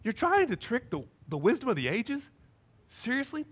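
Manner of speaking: softly incredulous, rising questions; gently ask, mildly disbelieving; loving disbelief. Acted. Jesus looking at those trying to trick him, loving disbelief. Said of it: "I can just hear he's got love, but he's just".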